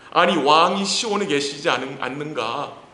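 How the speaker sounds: rising complaining lament. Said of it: "하나님께 탄식하는 거예요".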